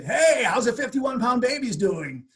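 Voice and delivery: imitating old friends poking fun; teasing. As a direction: needle him with a drawn-out tease. Friends teasing about the mistake.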